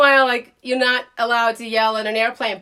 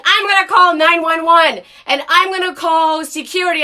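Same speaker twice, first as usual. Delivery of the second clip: louder mock threat; retold scream; 4 semitones higher, 5 dB louder than usual. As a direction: threaten her loudly. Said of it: "starts screaming".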